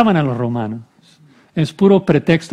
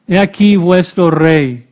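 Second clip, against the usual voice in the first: louder, emphatic mock proclamation; 2 semitones higher, 5 dB louder than usual. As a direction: present the king with a touch of ridicule. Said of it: "Va a hacerlo burlándose de los judíos". (con tono de burla)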